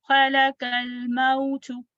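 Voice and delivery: slow, level tajweed reading; measured recitation. Shown as a demonstration. Teacher models the phrase for students, measured recitation. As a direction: recite the phrase slowly and evenly.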